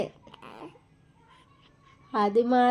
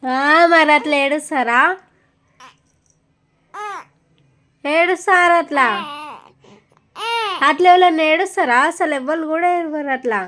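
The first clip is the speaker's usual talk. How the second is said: louder, raised-voice chiding of a little one; gentle chiding; 2 semitones higher, 3 dB louder than usual. Real, not acted. Chiding the crying child. (ఏడుస్తున్న పాపను కాస్త గట్టిగా మందలిస్తూ)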